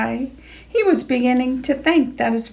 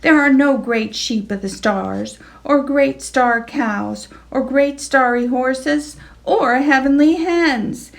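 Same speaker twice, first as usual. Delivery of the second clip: stern; 4 semitones higher than usual. Acted. Henry settles the argument, building stern. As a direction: settle it firmly. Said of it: "said Henry sternly".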